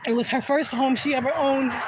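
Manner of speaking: steady yourself and say it through real tears; choked up. Real, not acted. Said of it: "I'm sorry".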